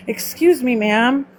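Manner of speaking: lightly put-on proper speaking voice; mock a careful, proper English register; slightly affected formal ma'am voice. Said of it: "turn on my proper English speaking".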